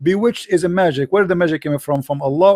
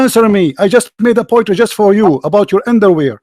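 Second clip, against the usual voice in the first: raised, insistent debating voice; heated challenge; 2 semitones higher than usual. Real, not acted. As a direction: press the opponent hard for an answer. Heated debate, demanding an answer. (تحدٍّ بصوت مرتفع)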